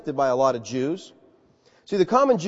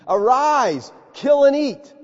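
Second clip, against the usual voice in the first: higher, louder command from heaven; commanding God; 8 semitones higher, 4 dB louder, slower than usual. Acted. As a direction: call it down like God's voice. Preacher repeats God's command.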